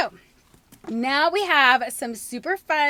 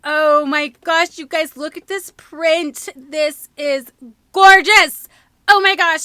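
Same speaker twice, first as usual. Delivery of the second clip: gushing; 9 dB louder, slower than usual. Real, not acted. Gushing over a print.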